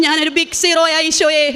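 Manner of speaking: slow, laughing through the words; laughing confession. Retold or imitated. Woman laughing as she tells Jesus she's a big zero. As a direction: admit you're nothing with a rueful laugh. Retells her humble prayer to Jesus.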